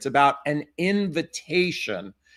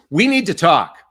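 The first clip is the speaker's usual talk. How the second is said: louder, weighted, ominous; heavy, alarming We need to talk; 3 semitones higher, 9 dB louder than usual. Shown as a demonstration. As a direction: drop it like bad news. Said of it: "Can you see the difference between the two?".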